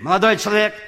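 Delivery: высокий окрик швейцара; окликнуть прохожего сзади; крик вслед. Retold or imitated. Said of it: "Вдруг сзади слышу крик". (громко окликает вслед)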